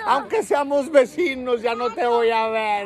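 exaggerated crybaby farewell; mock weeping. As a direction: draw out a pretend sobbing goodbye. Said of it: "En la lloradera".

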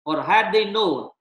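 measured reading of the passage; scripture reading. Acted. Pastor reading Corinthians to the church, measured. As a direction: read the verses out steadily.

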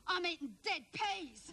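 high, slow, hammed-up wail; mock crying toddler. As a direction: imitate a three-year-old's tearful complaint. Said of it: "she bursts out crying".

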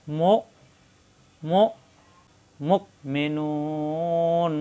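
মো and মুক caught in the throat, not bounced; catch in the throat. Shown as a demonstration. Teacher demonstrating a hamza held in the throat. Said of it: "ধাক্কার মতো কিন্তু ধাক্কা না".

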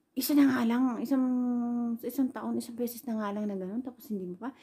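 mock telling-off with loud opening jabs; retold angry scolding. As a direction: imitate an annoyed husband's scolding. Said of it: "galit as in talaga".

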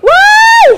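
sudden high shriek. Real, not acted. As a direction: shriek in surprise. Sudden shriek mid live sale.

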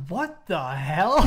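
slow, drawn-out astonishment; stunned disbelief. Retold or imitated. Resident finds armed team outside, drawn-out disbelief. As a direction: stretch each word in retold shock. Retells shock at swat team.

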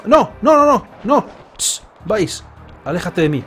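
loud, high outraged no's; sputtering foiled villain. Acted. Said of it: "Maldice, maldice, agita el puño".

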